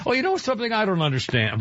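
a real crack in the voice. Real, not acted. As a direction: let the voice crack mid-line. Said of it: "Wait, my voice cracked there".

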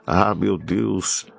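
normal talking voice

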